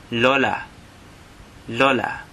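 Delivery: "lola" as LOH-lah, open o; Tagalog word for grandmother. Shown as a demonstration. Teacher pronouncing "lola" for learners. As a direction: repeat "lola" clearly. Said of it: "Grandmother is".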